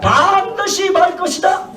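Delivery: slow, booming solemn decree; drawn-out divine warning; voice of God. Acted. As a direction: proclaim it slowly like God from heaven. God's warning continues.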